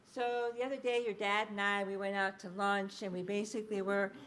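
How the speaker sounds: put-on running conversational chat, no baby lilt; adult-directed speech. Shown as a demonstration. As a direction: talk on as to another adult. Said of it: "That's adult-directed speech".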